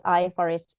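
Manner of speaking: IFRS said as one word, "ifrs"; acronym as word. Shown as a demonstration. Admitting an old habit to Mark, "ifrs" as one word. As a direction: run the letters of "ifrs" together as a word. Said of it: "emphasizing the wrong syllable".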